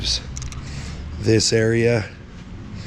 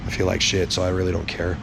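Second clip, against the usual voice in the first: hoarse, sick, barely any voice; raspy whisper from pneumonia; lost voice. Real, not acted. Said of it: "Sorry, I have no voice".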